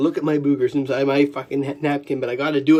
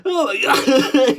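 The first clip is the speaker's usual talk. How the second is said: high, drawn-out exclamation through laughter; laughing hard; 8 semitones higher, 3 dB louder, much slower than usual. Real, not acted. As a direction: gasp it out slowly while laughing.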